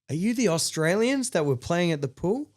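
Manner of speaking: acted-out stranger, high and eager; excitedly ask, pitched well up; high-pitched excited question. Stranger excitedly greets them in club.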